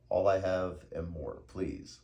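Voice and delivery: loud, slow begging; desperate pleading. A narrator's reading. Beaten Count begging for his life, desperate. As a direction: plead with force, drawn out.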